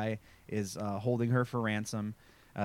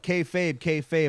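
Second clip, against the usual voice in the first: mock backstage yell; 4 semitones higher, 3 dB louder, slower than usual. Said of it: "you'd yell out".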